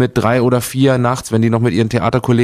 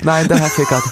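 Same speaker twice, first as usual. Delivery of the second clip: Saxon pronunciation; 4 semitones higher than usual. Shown as a demonstration. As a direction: say Fickert the Saxon way. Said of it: "als Sachse aussprichst". (Fickert leicht sächsisch ausgesprochen)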